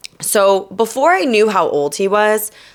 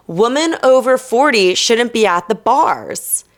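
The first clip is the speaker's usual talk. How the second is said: mock quoting him; 4 semitones higher than usual. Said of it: "this guy literally said, and I quote".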